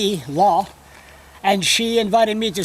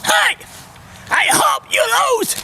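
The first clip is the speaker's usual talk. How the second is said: hollering at him. Retold or imitated. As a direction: holler it across the street at a passing rival. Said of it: "I hollered".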